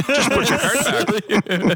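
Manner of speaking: high, very slow, overly polite correction; polite cart-agent voice. Retold or imitated. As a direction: talk to him like a patient agent scolding a child. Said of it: "they're all putting a voice on".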